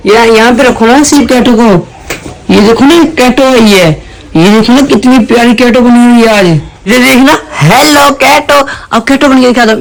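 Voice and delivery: sweet pet talk for the cat. Real, not acted. Talking sweetly to his pet cat. (बिल्ली से प्यार भरी तोतली बातें)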